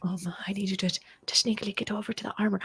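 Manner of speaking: hushed repeated order; whisper. Acted. Player whispering to her moth a second time, hushed. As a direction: whisper the order again, secretive.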